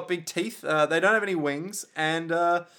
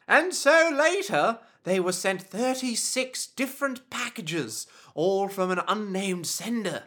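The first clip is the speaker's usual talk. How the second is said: dramatic narrator; 4 semitones higher than usual. Pretend.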